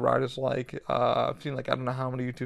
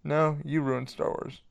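slow mock Vader; 2 semitones higher, slower than usual. Shown as a demonstration. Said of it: "Vader, really?".

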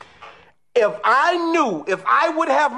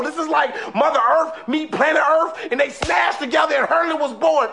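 excited; 2 semitones higher than usual. Real, not acted. Hyped about the hurling match.

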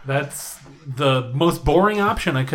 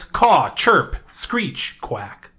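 bird noises; much slower than usual. Pretend. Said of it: "Yeah, that works".

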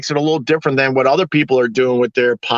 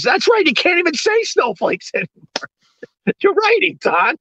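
mock agreement; 11 semitones higher than usual. Mocking agreement with commenter.

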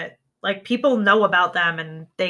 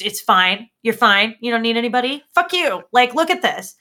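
louder and higher, a hammed-up furious tirade; mock furious outburst; 4 semitones higher, 6 dB louder than usual. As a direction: rant at them like an angry mentor. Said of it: "when she's like".

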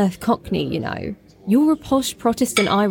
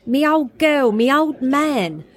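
mocking Cockney; 4 semitones higher, slower than usual. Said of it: "turned into a Cockney".

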